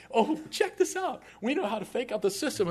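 high, eager show-off voice; boys boasting. Retold or imitated. Boys showing off their elevator trick, eager and high. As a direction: pitch it up like a bragging teenager.

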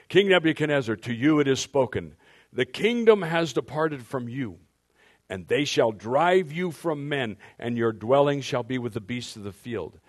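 loud, proclaiming voice from heaven; heavenly voice. Shown as a demonstration. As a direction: pronounce judgment from the sky. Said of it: "That's my heavenly voice".

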